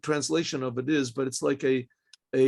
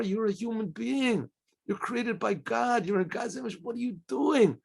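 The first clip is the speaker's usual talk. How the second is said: Moses' rebuke; 5 semitones higher, 3 dB quieter than usual. Pretend. Moses rebukes each selfish person.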